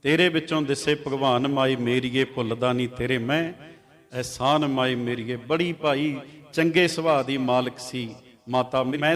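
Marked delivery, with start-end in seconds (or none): 0.0-5.4 recited verse with a lingering, devotional lilt; poem recital. Acted. Preacher recites a verse about mother to the congregation, devotional recital.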